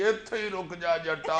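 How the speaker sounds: slow, drawn-out film hero challenge; film hero line. Retold or imitated. Dad catching son on the stairs, slow mock film-hero threat. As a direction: let dad borrow the hero's slow menace. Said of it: "daddy کی آواز آئی".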